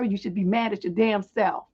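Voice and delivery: usual speaking voice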